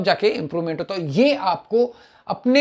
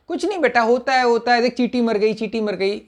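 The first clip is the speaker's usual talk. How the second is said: put-on soothing a child; 3 semitones higher than usual. Comforting a crying child.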